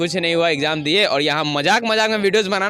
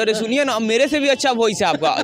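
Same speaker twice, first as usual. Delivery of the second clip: put-on girl's voice; 5 semitones higher than usual. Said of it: "वही बोलती है".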